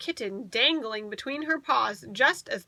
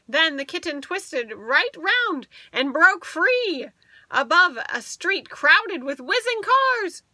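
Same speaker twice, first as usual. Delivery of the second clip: higher and louder as the kitten falls and flies; rising excitement; 5 semitones higher, 4 dB louder than usual. A narrator's reading. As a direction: build the suspense to the flight.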